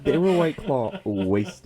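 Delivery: laughing. Real, not acted. Laughing about drunk night.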